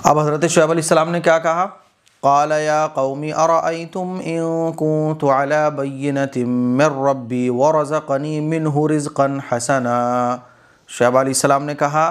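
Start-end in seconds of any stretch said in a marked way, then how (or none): 2.2-10.0 slow, measured Arabic recitation; slow melodic chanting of scripture; Quran recitation. Acted. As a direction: recite the verse with long drawn-out vowels.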